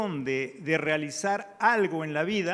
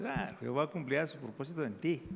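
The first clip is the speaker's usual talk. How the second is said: offhand; 3 semitones lower, 6 dB quieter, faster than usual. Retold or imitated. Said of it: "Es fácil decirle al que al lado".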